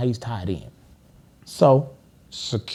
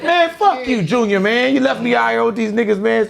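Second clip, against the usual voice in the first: imitating an angry curse; 9 semitones higher, 5 dB louder than usual. Johnny cursing at Junior.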